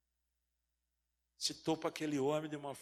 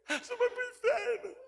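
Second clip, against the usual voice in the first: much higher, loud, delighted verdict; gleeful giggly boy; 7 dB louder than usual. Retold or imitated. Boy cheerfully telling the doctor he's going to hell, giggly and high. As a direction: chirp it out, tickled by the idea. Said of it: "achando barato".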